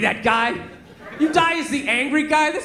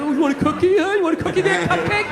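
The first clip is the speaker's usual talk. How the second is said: sneering, higher mock taunt at the cookie guy; 5 semitones higher than usual. Comic imagining taunting the counter guy, sneering mock bully. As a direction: jeer it like a bully picking a fight.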